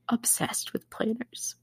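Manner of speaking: slow, whispered confession of obsession; hushed emphasis. Real, not acted. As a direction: drop to a dramatic whisper.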